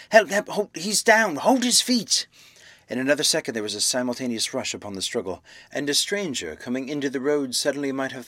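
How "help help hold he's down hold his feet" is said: very high, loud frantic shout; screaming for help. A narrator's reading. Man pinning his attacker begs the crowd, high scream. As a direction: yell for help, climbing higher to the end. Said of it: "screamed Kemp".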